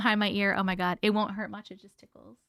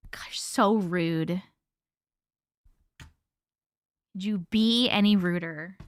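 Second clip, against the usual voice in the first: mock scolding. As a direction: pretend to be fed up with the audience. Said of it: "that was a complete joke".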